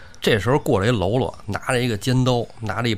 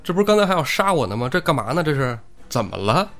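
flustered; 4 semitones higher than usual. Acted. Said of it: "说宋江有点慌了".

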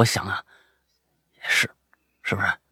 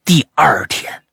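usual speaking voice

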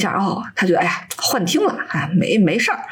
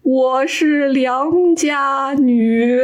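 helpless ghost wail; 5 semitones higher, much slower than usual. Acted. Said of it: "很无奈地说".

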